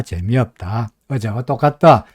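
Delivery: ordinary talk, nothing marked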